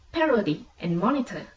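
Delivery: "parody and monitor" with PA and MON strong; first-syllable stress. Shown as a demonstration. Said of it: "the stress falls on the first syllable".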